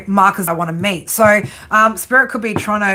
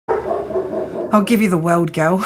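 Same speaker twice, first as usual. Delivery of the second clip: mock seductive; slower than usual. Flirty reply to viewer.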